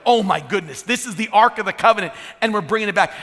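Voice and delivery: imitated excitement, slightly lifted voice; excited. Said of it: "see him getting excited, going".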